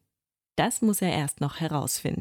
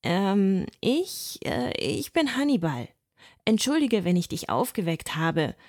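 surprisingly loud voice; 3 semitones higher than usual. Acted. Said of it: "mit einer erstaunlich lauten Stimme".

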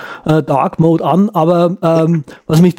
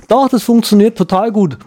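put-on young woman voice; 5 semitones higher than usual. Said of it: "So ein junges Mädel".

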